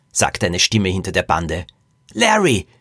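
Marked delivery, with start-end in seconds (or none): 2.1-2.7 high-pitched delighted shout of the name; joyful, squealed greeting; jubilant cry. Acted. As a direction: cheer your rescuer's arrival. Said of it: "jubelten die Knickerbocker".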